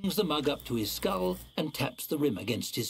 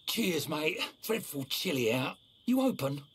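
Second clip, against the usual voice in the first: grim reaper voice; 3 semitones higher than usual. Acted. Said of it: "the ghastly voice of death spilling forth".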